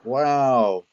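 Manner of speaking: impressed. Real, not acted. Reacting to big roll.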